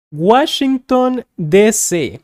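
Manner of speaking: Washington said the Spanish way, pitch lifted; Spanish accent. Shown as a demonstration. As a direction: give "Washington" a Spanish accent, slightly slowed. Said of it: "we kind of use a Spanish accent".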